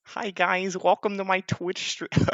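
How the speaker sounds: squeaky, high-pitched streamer impression; Daguerre. Commentator mimicking a streamer's greeting, in a squeaky put-on voice. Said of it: "I can't do a Daguerre accent. It's too squeaky".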